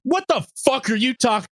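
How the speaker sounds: mock angry snap, high-pitched; high, indignant retort in a cartoon voice; Videl. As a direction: blow up at an accuser, hammed-up. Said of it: "Videl snaps and is like".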